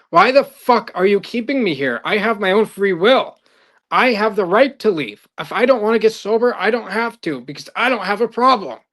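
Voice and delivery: angry rant. Retold or imitated. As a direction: act out a pilot fed up and demanding to leave. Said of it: "kept getting madder and madder".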